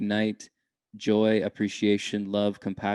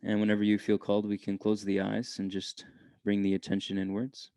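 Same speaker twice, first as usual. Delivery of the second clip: unhurried meditation guide with long pauses; calm, measured meditation voice; guided meditation. Real, not acted. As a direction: gently lead listeners inward, leaving space between phrases.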